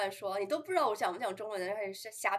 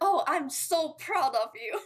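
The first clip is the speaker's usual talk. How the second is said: high, snide, backhanded sarcastic tone; 7 semitones higher, 4 dB louder than usual. Retelling what a man said to mock someone: imitating a sarcastic remark. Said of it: "老阴阳人了".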